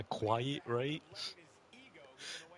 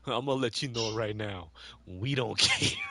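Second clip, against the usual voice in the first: Stephen A Smith; 5 dB louder than usual. Retold or imitated. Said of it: "the Stephen A Smith, um, thing".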